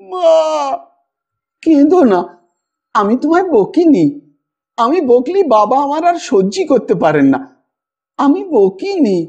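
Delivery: put-on a toddler pleading through sobs; sobbing child. A narrator's reading. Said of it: "ফুলে ফুলে কাঁদতে কাঁদতে বললে". (ফুঁপিয়ে কাঁদতে কাঁদতে শিশুর মিনতি)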